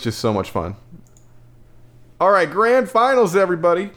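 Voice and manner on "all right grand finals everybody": rally the crowd for the grand finals; hype announcer. Acted. Hyping up the final matchup.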